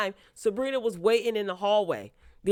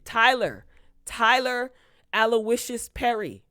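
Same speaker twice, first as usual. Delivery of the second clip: louder, higher calling out Tyler; full-name scolding; 4 semitones higher, 5 dB louder than usual. Real, not acted. Scolding the show's writer by full name, louder. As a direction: call him out like a scolding parent.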